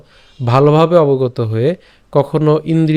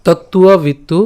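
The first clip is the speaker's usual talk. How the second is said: measured, slightly raised shloka recitation; verse recitation; slower than usual. Shown as a demonstration. Teacher repeating the full verse for the class. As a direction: recite the whole verse once more, deliberately. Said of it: "আমি যদি আরেকবার বলি".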